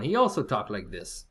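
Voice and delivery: lightly imitated Polish accent; a hint of a Polish coworker's accent. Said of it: "And I had a Polish one".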